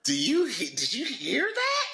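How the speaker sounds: high put-on Eastern European accent; mock Eastern European accent. Host asks in a mock Eastern European accent. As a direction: keep the vampire accent going. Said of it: "She has an accent".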